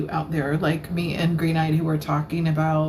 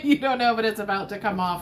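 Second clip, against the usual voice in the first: laughing; 3 semitones higher, faster than usual. Real, not acted. Streamer joking about the cloth coming off, laughing. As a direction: giggle through the whole line.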